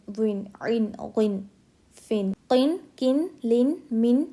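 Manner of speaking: "इन, बिन, तिन" with short i and clear n; clear izhar. Shown as a demonstration. Teacher drilling do zer as written, clear izhar n. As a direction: recite each like "मिन", final n sounded, never hidden. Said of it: "जैसा लिखा हुआ होता है हमें वैसे ही".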